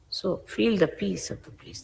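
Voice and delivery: hushed, calming guidance; gentle urging. Real, not acted. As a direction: softly coax them toward peace. Guiding listeners toward inner peace.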